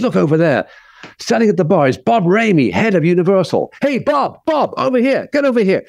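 calling out. Retold or imitated. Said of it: "the manager goes".

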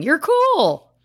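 playful pretend scream; mock screaming fans. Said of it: "people listening right now that are screaming".

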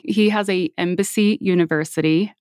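sarcastic. Real, not acted. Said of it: "I say with full sarcasm".

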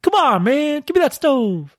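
high, hammed-up old-man Biden voice; Joe Biden impression. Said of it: "come in and be like".

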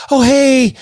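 high, sing-out greeting to a dog; imitated dog coaxing. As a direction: mimic a woman calling a dog over. Retold fiancee greeting the loose dog.

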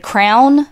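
"crown" for crayon, one syllable. Shown as a demonstration. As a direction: say "crown" as the dialect word for crayon. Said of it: "some people say, like, crown".

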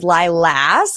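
"Lilas" with a flat Ohio a; Northeast Ohio pronunciation. Shown as a demonstration. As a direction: say "Lilas" to rhyme with lass. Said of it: "that's the Northeast Ohioan in me".

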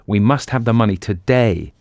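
stern, insistent demand, stress on must; severe. Acted. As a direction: lay down the law. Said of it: "he said severely".

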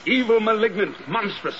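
vehement. Acted. Ahab denounces the whale.

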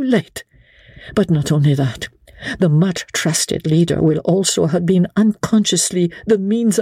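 calm and resolved, she will not be refused; quiet firm resolution. A narrator's reading. Lady Blakeney laying out the plot to Sir Andrew, firm and steady. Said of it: "She had spoken quietly and with firm, unbending resolution".

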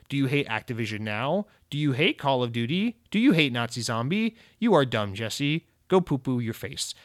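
a hint of a stiff robot reading out a rude comment; mock the nasty commenter in a choppy, sing-song robot voice, each "you" rising; robotic troll voice. Podcast host mocking a rude YouTube commenter, lightly robotic troll voice. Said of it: "even sounding like a complete robot".

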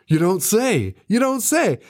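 hammed-up telephone small talk; sarcastic. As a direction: play up a fake interested phone voice. Mocking a one-sided phone call.

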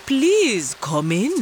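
slow, lightly voiced leopard; a hint of a big leopard. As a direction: invite her in slowly. Leopard invites tortoise in.

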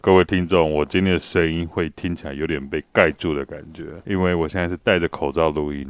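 muffled behind a mask; through a face mask. Real, not acted.

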